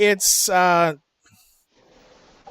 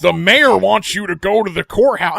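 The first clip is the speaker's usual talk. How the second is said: Walnut calling out; 6 dB louder than usual. Retold or imitated. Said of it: "And you hear Walnut".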